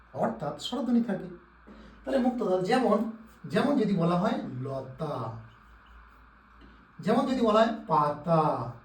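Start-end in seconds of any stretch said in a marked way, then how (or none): 4.6-5.4 "লতা" drawn out slowly, ending on an open vowel; open final vowel. Shown as a demonstration. Teacher giving an example of an open syllable, "লতা" slowly drawn out. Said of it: "প্রত্যেকের শেষে স্বরধ্বনি আছে". 7.9-8.7 "পাতা" drawn out slowly, both vowels held open; open final vowel. Shown as a demonstration. Teacher giving a second open-syllable example, "পাতা" slowly drawn out. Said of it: "প্রত্যেকের শেষে স্বরধ্বনি আছে".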